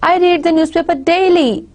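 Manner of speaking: "daily" given the focus, pitch held up into it; stress on DAILY. Shown as a demonstration. Lecturer repeating the example for students, stress on "daily". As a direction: land the emphasis on the final word "daily". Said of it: "It means the focus is on daily".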